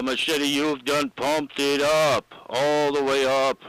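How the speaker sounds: slow, drawn-out Southern accent attempt on "done pumped it up"; attempted Southern drawl accent. Ham radio buddy teasing Machete in a slow put-on Southern accent. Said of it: "I can't do that accent".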